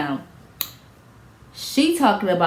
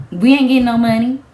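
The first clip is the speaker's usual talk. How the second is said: louder, higher cry of dismay; dismayed outburst; 4 semitones higher, 5 dB louder than usual. Retold or imitated. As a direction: blurt it out as the bad news hits. Realizing lawsuit is lost.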